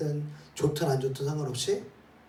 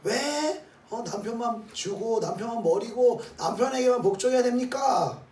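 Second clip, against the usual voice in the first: high-pitched, indignant mock protest; 8 semitones higher, 4 dB louder than usual. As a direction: object loudly, pitched way up. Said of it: "라고 우리의 육신은 항변하고 싶을 수 있는데".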